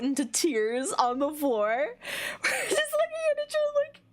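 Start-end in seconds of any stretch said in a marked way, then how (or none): 2.4-4.0 high squeal through laughter; breaking into laughter. Real, not acted. Storyteller losing it at the memory, laughing hard. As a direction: barely get the words out, cracking up.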